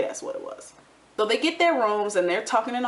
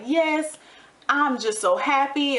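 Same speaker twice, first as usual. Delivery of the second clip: lightly imitating a sugary sweet greeting, higher; mock sweet boyfriend; 6 semitones higher, slower than usual. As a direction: lay it on thick like a smitten fake. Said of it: "Oh, he was like".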